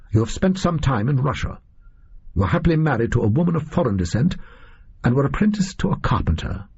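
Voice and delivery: confident detective. Acted. Holmes tells his captor what he deduces, lightly voiced confident detective. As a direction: reel off deductions with cool assurance.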